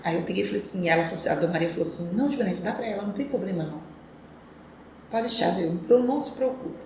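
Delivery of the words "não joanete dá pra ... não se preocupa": soft, easygoing reassurance; retold reassurance. Employer settling things with the mother, softly reassuring. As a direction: gently wave the worry away, imitating the employer.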